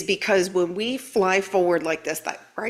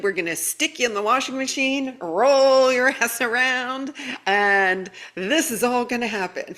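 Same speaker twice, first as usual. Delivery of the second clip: higher, slowed mock threat, breaking into a laugh; teasing billboard voice; 5 semitones higher than usual. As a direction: tease them like a cheeky sign. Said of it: "one long billboard that says".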